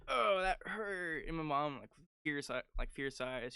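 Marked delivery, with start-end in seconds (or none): 0.1-1.2 slow, higher mock complaint; retold kid's complaint. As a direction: draw it out as an imitated hurt kid. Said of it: "he was all like".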